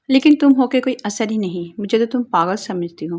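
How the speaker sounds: loud, exasperated scolding; husband yelling at his careless wife; angry shouting. Acted. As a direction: yell it at her, fed up. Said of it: "زور سے چلانے لگا".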